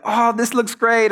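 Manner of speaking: drawn-out, high-pitched fake enthusiasm; gushing polite praise. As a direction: gush slowly to spare her feelings. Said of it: "everyone else is like".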